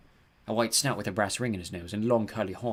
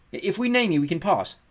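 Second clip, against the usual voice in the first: high, raised voice to a giant; calling up; 9 semitones higher, 5 dB louder than usual. A narrator's reading. Girl bargains with towering guardian, calling up. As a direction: call it upward, bargaining. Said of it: "I called up to the giant".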